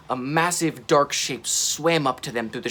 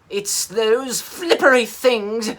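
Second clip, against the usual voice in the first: high, loud, slow monster shout; 8 semitones higher, 6 dB louder, slower than usual. Acted. Mira spotting the submarine, shouting at it. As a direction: bellow it like an angry beast. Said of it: "he shouted".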